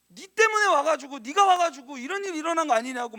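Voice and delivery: mild mock accusation; widow's accusation. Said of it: "막 따지기 시작하잖아요".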